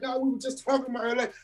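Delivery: retold crying plea. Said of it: "and I instantly start crying".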